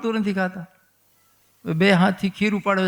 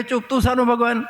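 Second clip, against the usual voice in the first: mock motherly scolding; 4 semitones higher, 3 dB louder than usual. Mother hushes boasting child.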